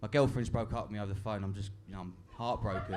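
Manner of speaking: a touch of mock self-pity on the phone to dad; mock heartbroken. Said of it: "You don't have to narrate".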